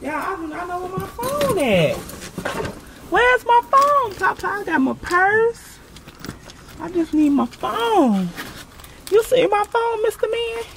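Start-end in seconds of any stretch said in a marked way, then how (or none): 3.1-10.6 yelling across the room. Real, not acted. Searching the house for her phone.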